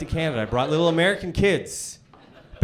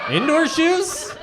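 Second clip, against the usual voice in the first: high, slow, rising disbelief; incredulous child; 12 semitones higher, much slower than usual. Acted. California kids hearing of Canadian customs, high-pitched incredulity. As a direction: draw it out as a baffled question. Kids baffled by indoor shoes.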